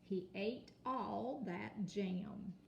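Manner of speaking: slow, smooth sentence with all stressed; slow fluent read. Shown as a demonstration. Teacher rereading the sentence smoothly but slowly. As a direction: read the whole line slowly. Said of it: "read your sentence".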